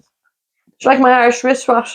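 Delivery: tongue twister through giggles; laughing through it. Shown as a demonstration. Friend laughing while attempting the tongue twister. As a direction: try it and crack up laughing. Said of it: "harder than an Irish accent".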